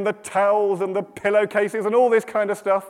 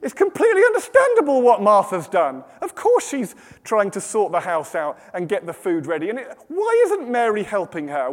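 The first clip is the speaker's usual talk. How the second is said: indignant objection. Acted. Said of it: "sitting there right now thinking".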